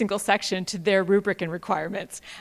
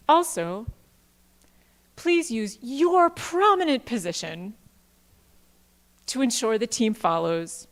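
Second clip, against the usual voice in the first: mock humble letter. Presenter dramatically reading a parody letter to the P I, hammed-up. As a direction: read it like an overdone fawning petition. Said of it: "I'm gonna read it out loud 'cause it requires animation".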